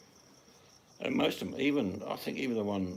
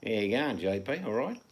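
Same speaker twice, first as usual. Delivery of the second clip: put-on Australian accent; 3 semitones higher, 5 dB louder than usual. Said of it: "this is what a Chinese person sounds like in Australia".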